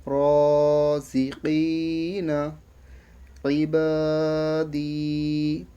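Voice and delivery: slow, level chant with long held vowels; drill recitation. Shown as a demonstration. Teacher reviewing the words just read, slow elongated recitation. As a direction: draw out every long vowel, word by word.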